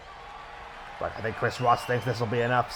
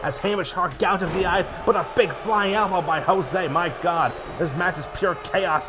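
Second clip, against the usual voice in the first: excited; 4 semitones higher than usual. Real, not acted. Chaotic moment, commentator yelling.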